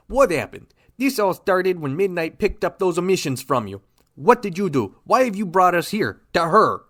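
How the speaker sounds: furious interrogation of a suspect friend; angry demands. Acted. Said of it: "Flash, calm yourself".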